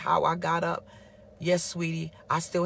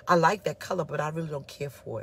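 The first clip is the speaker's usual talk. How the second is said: 1 tactful; 4 semitones lower than usual. Retold or imitated. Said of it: "Or he could say".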